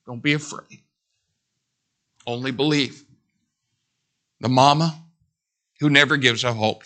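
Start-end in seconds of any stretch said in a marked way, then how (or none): 0.1-3.0 Jesus comforting. Retold or imitated. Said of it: "looked in his face and said".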